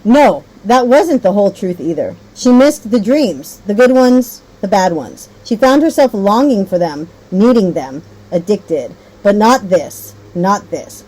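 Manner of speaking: fading, hushed storybook ending; reading with expression. Shown as a demonstration. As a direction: model expressive reading for the class. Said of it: "Lower performing reader would read".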